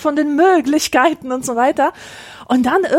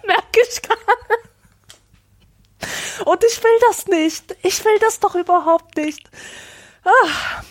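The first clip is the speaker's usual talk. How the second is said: giggly; 7 semitones higher than usual. Real, not acted. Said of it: "einen Wutanfall nach dem anderen".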